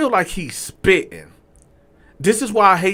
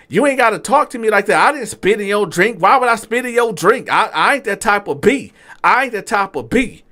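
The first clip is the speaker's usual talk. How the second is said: higher, faster offended rant; waiter arguing back; 6 semitones higher than usual. Retold or imitated. Waiter defending himself, high-pitched and offended.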